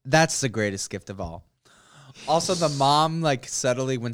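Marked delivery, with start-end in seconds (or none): 0.0-1.5 slow smug. Retold or imitated. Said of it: "proud quote".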